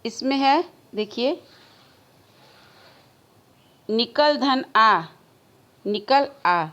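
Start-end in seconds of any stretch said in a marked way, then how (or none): 3.9-5.0 slowly, "निकल", "धन", "आ" each set apart; juncture demo. Shown as a demonstration. Teacher reading out a juncture example, slow and separated. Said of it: "उच्चारण के क्रम में". 5.9-6.7 "निकल", a short break, then "आ"; split into two words. Shown as a demonstration. Teacher showing word juncture, separating "निकल" and "आ". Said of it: "अलग-अलग शब्दों को हमने जोड़ दिया".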